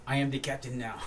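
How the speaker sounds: the captain line in a put-on African accent; imitated film-quote accent. Actor quoting what the set wanted, in imitated African accent. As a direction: mimic the accent of a famous movie captain. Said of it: "they all wanted me to say".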